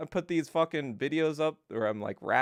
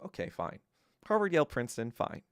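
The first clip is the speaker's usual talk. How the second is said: resigned shrug. Retold or imitated. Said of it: "I was like, kinda like".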